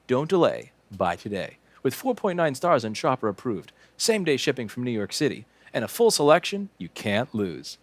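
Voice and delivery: hammed-up sales pitch; mock commercial voice; ad read. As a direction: pitch it like a shopping channel. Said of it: "you're really getting really good at advertising".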